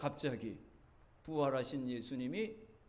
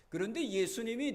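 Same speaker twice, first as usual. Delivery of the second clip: loud, higher sermon climax; impassioned preaching; 6 semitones higher, 6 dB louder than usual. Acted. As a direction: press the point on the congregation. Preaching climax on Jesus's question. (열정적으로 외치는 설교)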